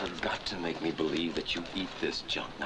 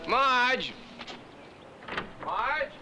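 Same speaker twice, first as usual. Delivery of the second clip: loud call across the house; 5 dB louder than usual. Acted. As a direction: shout for her from afar. Calling wife from another room.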